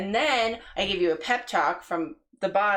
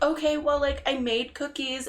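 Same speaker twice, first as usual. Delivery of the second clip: higher, accommodating mother's voice; imitating mom, pitched up; 7 semitones higher than usual. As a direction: offer it like an unsuspecting mom. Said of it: "she was like".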